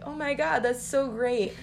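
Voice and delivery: high, excited dad gushing over the gift; dad thrilled by daughter's necklace, lightly acted; delighted dad. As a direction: gush over a child's present. Dad's delighted reaction voiced.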